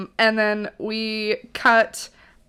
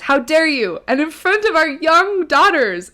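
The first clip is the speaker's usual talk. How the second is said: higher, louder hammed-up indignation; mock outrage; 7 semitones higher, 6 dB louder than usual. Taylor scolding Brendan in front of their cats, mock outrage. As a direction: act out an offended fight line. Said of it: "They are having a fight".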